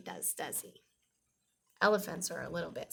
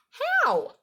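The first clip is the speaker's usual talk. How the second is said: laughing question; 11 dB louder than usual. A narrator's reading. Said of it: "Fluff laughs and asks".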